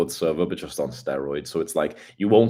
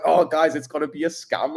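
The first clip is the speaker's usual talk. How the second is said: mocking viewer; 9 semitones higher, 4 dB louder than usual. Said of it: "And it's like".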